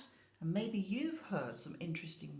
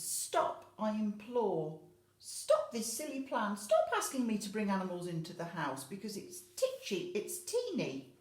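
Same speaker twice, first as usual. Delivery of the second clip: loud pleading voice, a little higher; begging old lady; 4 semitones higher, 4 dB louder than usual. Acted. Old lady begging the old man to drop the plan. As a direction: plead with him to stop. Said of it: "she's begging the old man".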